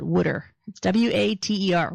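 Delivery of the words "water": "wooder" with a Philly vowel like wood; Philly-accented "wooder"; Philadelphia pronunciation. Shown as a demonstration. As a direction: say "wooder" the Philadelphia way, rhyming with "should-er". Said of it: "here in Philadelphia, we call it".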